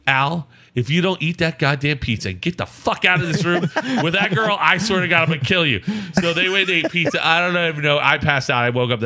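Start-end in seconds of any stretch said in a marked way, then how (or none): 0.1-5.8 mock-furious ultimatum, slightly raised pitch; retold angry threat. Roommate ordering Al out of the room, mock-furious. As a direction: lay down a comic death threat.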